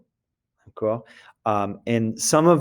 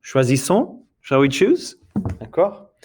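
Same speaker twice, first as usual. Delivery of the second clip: more pressure; 3 semitones higher than usual. Shown as a demonstration. Teacher showing the pushier version, urging. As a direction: press choisissons on them like a nudge. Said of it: "a little more pressure".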